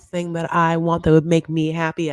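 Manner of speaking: high, slow, whiny complaining wife; mock aggrieved wife. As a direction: drag out every grievance in a high whine. S1 voicing Yara's tirade.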